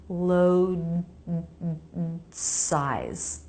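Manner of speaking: "Load size" with a brief voiced D, not released; "Load" ending in a tiny held D before "size"; quick unreleased D. Shown as a demonstration. Teacher showing the quick D in "Load size". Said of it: "really quick D sound".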